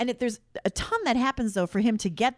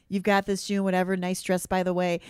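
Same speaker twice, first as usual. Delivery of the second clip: casual, unruffled retold voice; very calm. Imitating the hero chatting while flying around, very calm. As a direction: toss it off as easy small talk. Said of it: "he's very calm always".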